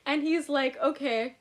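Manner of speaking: laughing while talking. Real, not acted. Telling friends the next morning, still laughing.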